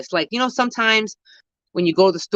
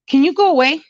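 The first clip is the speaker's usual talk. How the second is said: shooing call; 9 semitones higher, 6 dB louder than usual. Real, not acted. Shooing an animal away.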